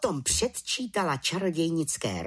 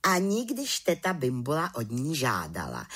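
ordinary delivery

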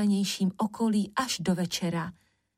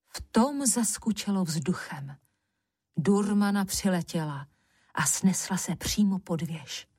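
plain reading voice

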